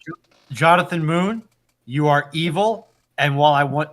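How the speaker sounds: ordinary talk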